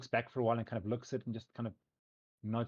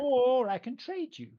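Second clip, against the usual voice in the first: put-on high, slow teasing teen; teenage girl voice; 13 semitones higher, 8 dB louder, slower than usual. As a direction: draw it out like a bratty teen. Nixie offers trade.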